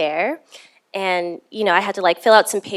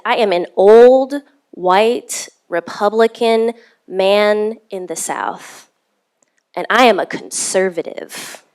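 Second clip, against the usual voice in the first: slow, weighty retold self-introduction; solemn declaration; 5 dB louder than usual. Older man introducing himself to a stranger, slow emphatic declaration. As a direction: announce it in slow, separated phrases.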